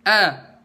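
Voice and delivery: loud, clear "A" with the mouth opened wide; open-mouthed hamzah. Shown as a demonstration. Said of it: "ngebuka rongga mulut".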